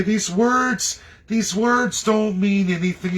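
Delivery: lightly mocking scoff; mock dismissive. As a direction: mimic someone waving the words away.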